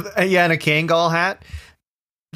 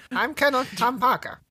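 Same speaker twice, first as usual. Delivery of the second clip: dim recruit voice; 8 semitones higher, 5 dB quieter than usual. Acted. Parroting recruit repeated.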